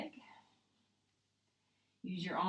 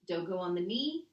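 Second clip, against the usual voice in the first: strained, holding the breath; 5 dB louder than usual. Real, not acted. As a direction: talk through a held breath. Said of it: "as I'm holding my breath".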